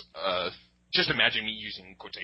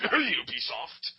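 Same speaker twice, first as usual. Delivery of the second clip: slow pointed name-drop; much slower than usual. Pretend. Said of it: "we will not name names".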